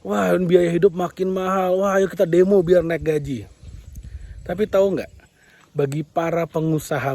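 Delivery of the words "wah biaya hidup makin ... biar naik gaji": griping employee. Retold or imitated. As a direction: lightly act a complaining employee. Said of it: "Para karyawan akan mengatakan".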